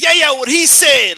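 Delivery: imitated superfan echo. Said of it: "she was almost repeating it word for word".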